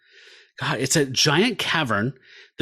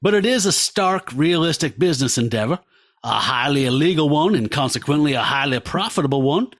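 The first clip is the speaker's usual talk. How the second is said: put-on Southern accent. Podcast host reading a villain's speech to co-hosts, in a light Southern accent. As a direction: read the crime boss's monologue in a mild Southern accent. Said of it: "I'm gonna do a Southern accent like that the whole time".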